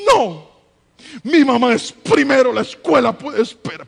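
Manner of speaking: put-on loud, pleading child insisting; a child's tearful protest, lightly played. Daughter tearfully refusing to leave her mother, loud pleading child voice. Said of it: "Pero llorando".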